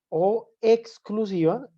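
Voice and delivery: "o" stressed high and long, whole phrase slow. Shown as a demonstration. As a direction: stretch the "o" of "o exclusiva" upward, slowly. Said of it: "Hago más énfasis en la O". (énfasis en la "o", alta y alargada, despacio)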